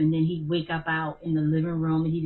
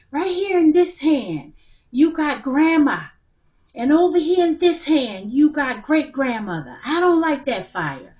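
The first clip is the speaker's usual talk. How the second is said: put-on scared child; 9 semitones higher, 9 dB louder than usual. Frightened son voiced in story.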